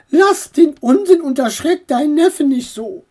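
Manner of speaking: aunt scolds the raven-uncle; scolding aunt. Acted. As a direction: tell him off like a cross aunt.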